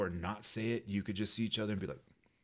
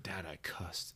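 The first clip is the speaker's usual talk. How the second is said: ashamed whisper; 7 dB quieter, slower than usual. Retold or imitated. Ashamed confession to dad.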